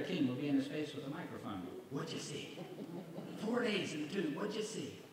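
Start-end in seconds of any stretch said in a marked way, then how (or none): 1.9-5.0 breathy, eager interviewer question; hushed pushy reporter. Pretend. Larry King pushes a microphone at Lazarus, hushed and eager. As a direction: press him for the story in a hushed voice.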